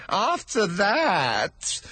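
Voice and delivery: high, slow stammering plea; timid hatter begging pardon; nervous hatter. Acted. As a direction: stammer it out, afraid of the king. Hatter continues.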